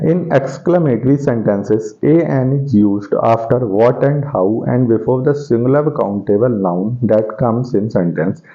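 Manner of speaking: slow, even dictation of a rule. Shown as a demonstration. Teacher dictating a grammar rule to students, slow and even. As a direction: read the rule out word by word for notes.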